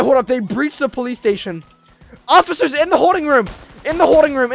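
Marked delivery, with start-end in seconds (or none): 2.3-4.5 tag. Pretend. Ordering officers during acted breach.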